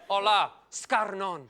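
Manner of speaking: lightly put-on Spanish accent; mock Spanish. Comic passing off Aussie slang as a Spanish greeting, lightly accented. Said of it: "That could be Spanish".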